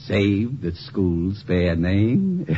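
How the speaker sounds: slow, drawn-out mock of a lofty speaker; mocking Doc's phrasing. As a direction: ape the professor's grand tone, slowly. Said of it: "Isn't that the way you'd say it?".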